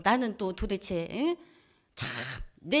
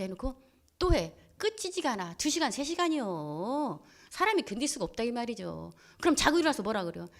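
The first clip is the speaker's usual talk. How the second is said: ordinary talk, nothing marked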